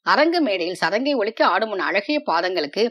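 a lover's gentle, loving plea; a touch of tenderness in the voice; tender. Acted. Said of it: "அன்பு ததும்பிய குரலில்".

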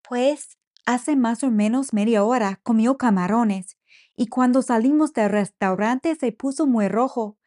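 anxious mother pleading for help; worried mother. Acted.

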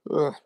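tired groaning yawn. Real, not acted. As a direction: let out a sleepy yawn. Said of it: "You feeling sleepy?".

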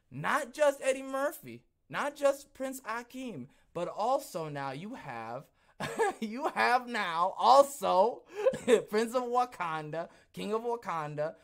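high and loud, slowing, breaking into laughter; can't get through it for laughing; laughing disbelief. Real, not acted. Showing viewers the card, laughing in high disbelief.

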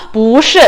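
不 rising before a falling 是; rising bú, then falling shì in 不是; second-tone 不. Shown as a demonstration. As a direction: say 不是 with 不 lifted to second tone. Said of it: "이성으로 바뀐다".

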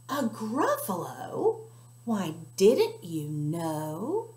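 slow, knowing tease; sly mouse. Acted. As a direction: lead the owl on.

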